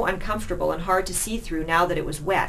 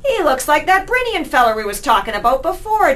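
high, loud cockney chatter; a brash thug voice; rough street rat; 10 semitones higher, 9 dB louder than usual. Acted. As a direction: bark it out to his mates.

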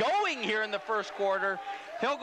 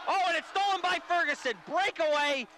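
excited call; 3 semitones higher than usual. Real, not acted. Call of a steal and breakaway.

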